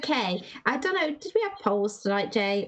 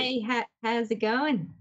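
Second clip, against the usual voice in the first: slow, hesitant Aussie accent; Aussie accent attempt. Shown as a demonstration. Host trying a greeting for the panel, tentative Aussie accent. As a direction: have a careful go at sounding Australian. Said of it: "have a go at an Aussie accent".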